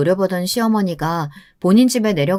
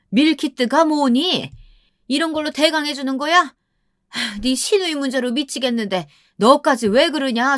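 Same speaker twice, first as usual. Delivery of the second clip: higher-pitched scolding mother-in-law voice; fault-finding questions, pitched up and indignant; nagging mother-in-law; 6 semitones higher than usual. Acted. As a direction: play an exasperated Korean mother-in-law.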